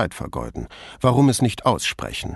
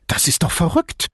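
higher-pitched indignant protest; irritated disbelief, voice lifted; angry rather than unsettled; 7 semitones higher than usual. A narrator's reading. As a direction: object with mild anger. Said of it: "diesmal eher zornig als verunsichert".

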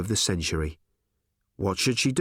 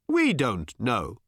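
alien voice; much slower than usual. Acted. Alien answering Tricia, slow and blank. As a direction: drag it out blankly.

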